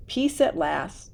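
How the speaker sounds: sighing. Acted. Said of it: "sighed Mother".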